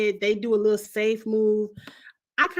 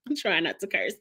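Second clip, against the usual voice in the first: laughing through the line; 4 semitones lower, 4 dB quieter than usual. Real, not acted. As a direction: giggle while correcting it.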